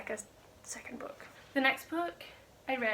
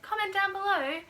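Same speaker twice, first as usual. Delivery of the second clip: high, loud YouTuber call-out; mock YouTuber; 8 semitones higher, 5 dB louder than usual. Vlogger mocking YouTubers asking for comments, high and loud. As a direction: parody a YouTuber's plea for comments. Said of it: "like a YouTuber who's like".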